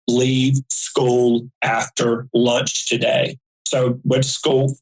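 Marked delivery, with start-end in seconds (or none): 0.1-3.4 calm. Retold or imitated. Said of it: "as clear and stronger outside of me".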